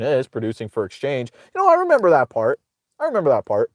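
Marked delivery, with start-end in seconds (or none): 1.5-2.6 sarcastic. Real, not acted. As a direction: say it with heavy sarcasm. Sarcastic mock of opponent.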